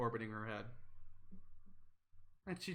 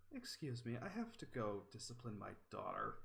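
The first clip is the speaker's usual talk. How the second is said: quiet, lower sigh of a mother; 4 semitones lower, 11 dB quieter than usual. Acted. Crystal off to discipline her daughter, sighing and quiet. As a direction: excuse yourself softly with weary restraint. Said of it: "just kinda sighs".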